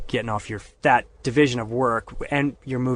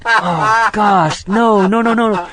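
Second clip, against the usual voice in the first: higher, louder flustered backpedalling; panicked denial; 8 semitones higher, 8 dB louder, much slower than usual. Retold or imitated. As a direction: scramble to deny it.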